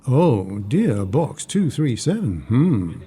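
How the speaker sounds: slow, drawn-out teasing echo. Acted. Friend echoing a pen pal's box-number name, teasing. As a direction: savour each word of the silly pet name.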